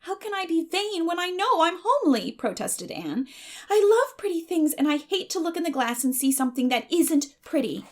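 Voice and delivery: put-on high, bright girl's voice, chattering on; a dreamy, eager orphan girl pleading; eager Anne. A narrator's reading. Anne protests.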